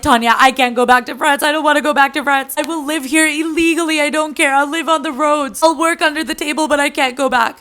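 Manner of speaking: lightly acted panicked begging, no real sobs; mock hysterical bawling. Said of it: "he starts bawling hysterically".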